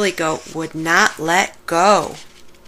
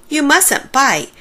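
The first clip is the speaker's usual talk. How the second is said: gentle scolding; 6 semitones higher, 4 dB louder, slower than usual. Acted. Ducky scolds kindly.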